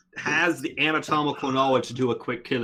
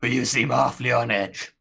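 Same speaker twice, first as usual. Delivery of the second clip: lightly voiced ghoul, leaning in; a hint of a creepy ghoul. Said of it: "I can't whisper my ghoul voice".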